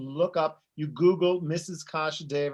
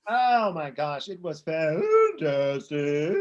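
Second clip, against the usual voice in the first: gushing; much slower than usual. Acted. Drawn-out gushing reply.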